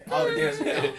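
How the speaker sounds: high squeal through a laugh. Real, not acted. Joking about his own funeral.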